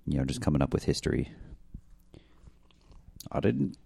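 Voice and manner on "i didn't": Tony England defending himself. Acted. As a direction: deny it like a guilty monster. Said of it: "is probably the creature".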